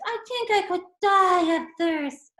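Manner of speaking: high, tearful mock sob; a child's hammed-up crying line; acted crying. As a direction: play it like a dying, thirsty bird in tears. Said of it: "Your acting is very realistic".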